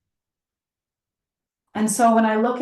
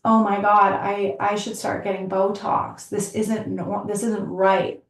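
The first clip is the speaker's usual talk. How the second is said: panicked inner voice. Retold or imitated. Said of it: "whatever your story is".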